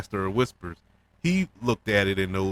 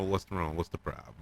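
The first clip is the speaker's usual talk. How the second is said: dismissive, hushed and much softer; disrespectful; 4 semitones lower, 9 dB quieter than usual. Retold or imitated. Alicent dismissing Aegon, soft whispered disdain. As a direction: brush him off under your breath. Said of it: "asks us in a way which was so disrespectful".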